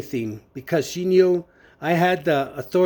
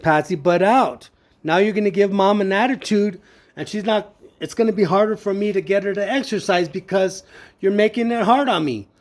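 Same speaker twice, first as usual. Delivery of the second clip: higher-pitched, exasperated telling-off; retold irritated scolding; 4 semitones higher than usual. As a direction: scold a meddling sister, retold. Retold quarrel with his sister.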